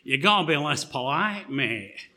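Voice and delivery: put-on a light Manchester accent with a bloke's tone. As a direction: mimic a Manchester football fan. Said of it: "I'll try and do my best Manchester accent".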